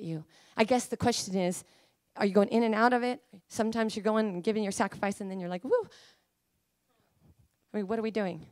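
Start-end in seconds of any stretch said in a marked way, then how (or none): 5.6-5.9 playful whoop. Acted. Acts out backing out.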